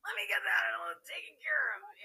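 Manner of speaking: high, breathy whispered mimicry; mock helpful whisper. Guest teasing the host, whispering her eager line. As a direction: tease her with a hushed eager voice. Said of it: "you're like".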